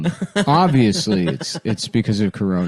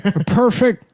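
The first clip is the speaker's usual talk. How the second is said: fighting game announcer; 8 semitones higher than usual. Acted. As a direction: boom it like an arcade announcer. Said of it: "that's the computer talking".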